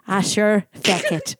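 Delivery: jokey put-on Irish brogue; Irish accent. Co-host claiming time in Ireland, put-on Irish accent. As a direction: ramble in a playful Irish accent. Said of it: "speaking with an Irish accent".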